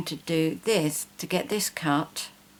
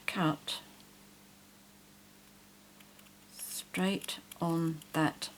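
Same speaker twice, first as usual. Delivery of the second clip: whispering; 6 dB quieter, much slower than usual. Real, not acted. Careful cutting along the line.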